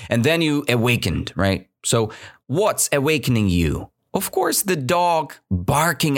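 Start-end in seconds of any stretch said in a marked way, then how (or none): none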